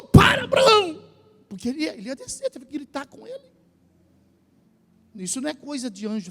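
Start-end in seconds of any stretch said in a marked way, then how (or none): 0.0-1.0 sudden high shout to stop him; urgent ringing cry of "stop"; angel's shout. Acted. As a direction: yell it out like the angel halting Abraham. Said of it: "o anjo gritou".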